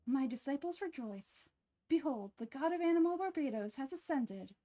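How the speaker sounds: grand reveal with ascended for descended; botched first take of the god reveal; fumbled proclamation. Acted. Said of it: "Let me try that line again".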